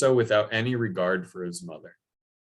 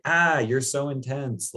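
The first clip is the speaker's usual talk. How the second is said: higher, flustered cry; overwhelmed hermit; 6 semitones higher than usual. Retold or imitated. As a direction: pull back from the pushy boy. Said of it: "this poor hermit's like".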